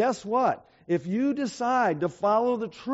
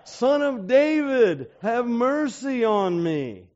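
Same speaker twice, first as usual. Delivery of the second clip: a blind man begging Jesus for mercy, slow and raised; crying out; 4 dB louder, slower than usual. Retold or imitated. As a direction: call out for mercy across the road. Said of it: "who was crying out".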